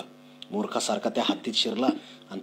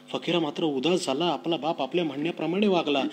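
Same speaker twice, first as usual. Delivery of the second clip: more expressive reread; 5 semitones higher than usual. Shown as a demonstration. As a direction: give the line more life. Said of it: "reread with more feeling". (अधिक भावपूर्ण, उंच आणि मोठ्या आवाजात)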